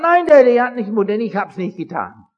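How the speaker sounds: high, loud child's protest, retold; protesting son. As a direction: cry out your innocence as the boy. Son protests his innocence. (hoher, lauter Protest des Sohnes)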